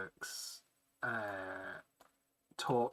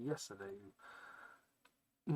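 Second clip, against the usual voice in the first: slow drawn-out; 3 semitones lower, 7 dB quieter, much slower than usual. Shown as a demonstration. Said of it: "repeats phrase, drawn out".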